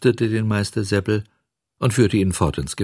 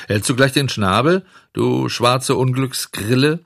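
scolding; 6 semitones higher than usual. Acted. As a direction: snap at the cricket. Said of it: "schimpfte Bengele".

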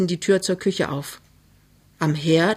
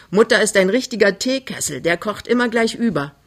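lively, raised, teasing tone; high spirits; 4 semitones higher than usual. Acted. Daughter jokes about mother's temper, cheerfully. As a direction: joke cheekily about mother. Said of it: "Sie ist bester Stimmung".

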